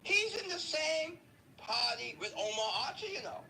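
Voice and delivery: imitating him. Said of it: "Just the way he says".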